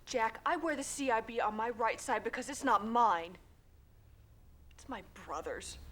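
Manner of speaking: loud, emphatic correction; indignant rebuke. Acted. Veteran setting Jack straight about a brother's badge, indignant. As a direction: set him straight forcefully.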